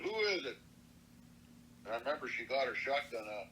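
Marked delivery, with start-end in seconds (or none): 0.0-0.6 high-pitched call to a stranger; wary calling out. Retold or imitated. Grandma answers a knock on the door at night, calling out. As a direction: pitch jumps up on the question.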